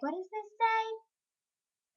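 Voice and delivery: put-on high, slow puzzled kid reading; slow high mock-confused. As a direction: sound out slowly like a confused kid. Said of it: "And I'm like".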